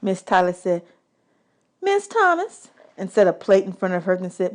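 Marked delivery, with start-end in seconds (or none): 1.8-2.7 announcing host voice. Acted. Waitress announcing guests' plates.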